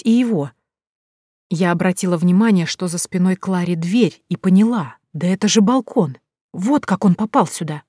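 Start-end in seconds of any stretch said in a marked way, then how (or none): none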